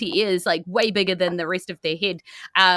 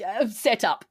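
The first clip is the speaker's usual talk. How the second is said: put-on higher, warm praising old man; jolly Santa; 8 semitones higher, 4 dB louder than usual. GM voices Santa praising cleric.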